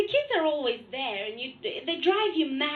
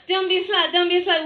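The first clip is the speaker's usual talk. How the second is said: urgent self-warning; 3 semitones higher, 6 dB louder, faster than usual. Retold or imitated. Frantic warning to herself, retold.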